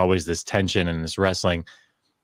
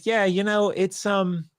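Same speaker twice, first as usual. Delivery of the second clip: imitating the advisor; 6 semitones higher than usual. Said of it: "And he said".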